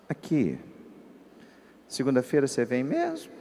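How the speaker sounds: slightly hushed imitation of mother; softly conspiratorial mother; confidential low voice. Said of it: "começou a falar assim mais baixinho".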